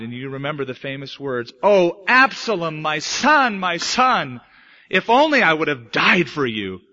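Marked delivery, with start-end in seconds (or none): 1.6-6.8 acted lament, louder on the opening; anguished cry. David mourning his murdered son, anguished cry. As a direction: cry out in mild, preacherly anguish. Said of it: "he cried".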